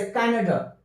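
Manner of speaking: कनाडा ending on a light schwa, not a full aa; slowly, कनाडा with a soft short final vowel. Shown as a demonstration. Teacher demonstrates the weak final vowel, slow. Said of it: "मतलब हल्का अ कहते हैं".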